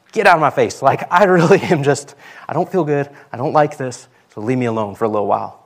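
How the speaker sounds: mock-grumpy outburst, loud then settling. Grumbling at someone who says cheer up, mock grumpy. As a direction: play up being grumpy, half laughing at first. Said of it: "Am I just gonna stay grumpy?".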